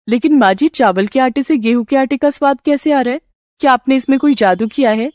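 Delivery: daughter-in-law asking mother-in-law about magic, lightly amazed; curious daughter-in-law. Acted.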